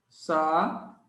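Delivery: "Sa-u-de" with long pauses between syllables; saúde split into three drawn-out syllables. Shown as a demonstration. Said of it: "Separei a sílaba".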